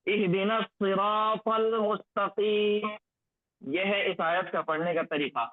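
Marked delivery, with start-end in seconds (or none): 0.1-2.9 slow measured recitation; slow Quranic reading as a model. Shown as a demonstration. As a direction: recite it slowly, each syllable drawn out. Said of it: "recites the verse as model".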